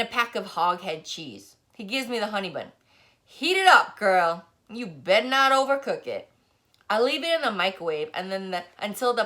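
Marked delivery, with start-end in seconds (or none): 3.2-6.3 put-on high, loud bossy old barber barking orders; bossy old man. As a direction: boss the girl around like a cranky elder.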